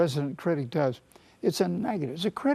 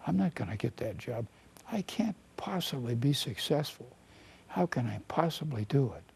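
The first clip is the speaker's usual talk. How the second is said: inner critic voice. Acted. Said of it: "this is what the resident critic in our head sounds like".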